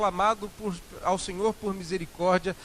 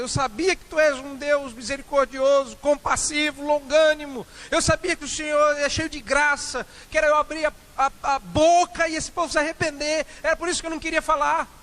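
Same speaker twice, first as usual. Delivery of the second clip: annoyed, angry, pitched-up voice; 7 semitones higher, 4 dB louder than usual. Speaker retells the prophet Jonah's words to God: Jonah's mock-angry complaint. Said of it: "ele fala num tom de braveza".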